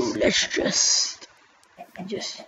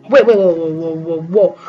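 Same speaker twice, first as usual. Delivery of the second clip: startled whoa; 3 semitones lower, 5 dB louder than usual. Real, not acted. Sudden shock during gameplay.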